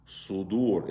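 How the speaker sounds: sudur with the second u drawn long; correct long vowel. Shown as a demonstration. Teacher models the word, sudur with long ending. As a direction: hold the oo in the last syllable of sudur. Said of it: "It's not sudur".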